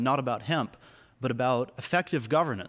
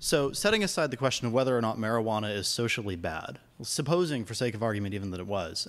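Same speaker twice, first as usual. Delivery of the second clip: raised voice; 3 semitones lower than usual. Real, not acted. Audience member repeats the question on request, voice raised a little. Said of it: "Could you raise your voice just a little bit".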